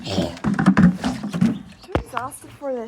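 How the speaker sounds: slow, strained, out of effort. Real, not acted. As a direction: grunt it through the strain. Strained with the tub.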